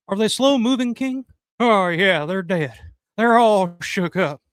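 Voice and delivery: impression of a famous singer. Streamer reading a fan's super chat aloud, as a light impression of a famous singer. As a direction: croon it like a famous crooner with a grin. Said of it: "I can do a pretty good Elvis".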